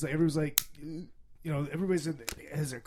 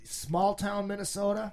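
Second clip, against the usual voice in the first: higher-pitched small-town Minnesota accent; 6 semitones higher than usual. Shown as a demonstration. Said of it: "it's like that".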